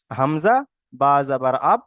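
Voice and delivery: "আব" as one closed syllable after the spelling; joined first reading. Shown as a demonstration. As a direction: spell it out, joining hamza and ba into "আব". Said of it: "হামজার সাথে একবার মিলিয়ে উচ্চারণ হবে". ("আব" মিলিয়ে বানান করে পড়া)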